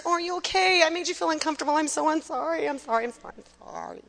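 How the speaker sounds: a lightly voiced anxious peacemaker; peacemaking woman. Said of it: "socialized to be peacemakers".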